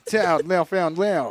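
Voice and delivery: slow mock-French name; French accent. Announcing the episode title, drawn-out French accent. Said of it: "make it all French".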